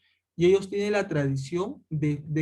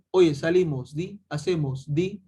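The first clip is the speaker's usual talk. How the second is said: lightly imitated northern Peruvian speech, tagging "di" on each phrase; a casual northern Peru accent with a drawn-out "di" at the phrase ends; a hint of a northern Peruvian speaker chatting. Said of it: "las personas del norte dicen la palabra di".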